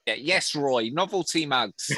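lightly voiced Moss from a sitcom; a hint of Moss, played for laughs; Moss impression. Podcaster doing Moss for laughing co-hosts, light impression. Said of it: "He's a banging Moss".

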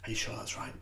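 hushed whisper in someone's ear; quick, secretive whisper. Acted. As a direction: whisper it like a touchline confidant. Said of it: "why am I whispering".

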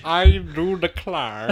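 slow, mocking copy of a bad drawl; mock attempt. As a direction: imitate a failed accent, drawn out. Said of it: "It wasn't an accent".

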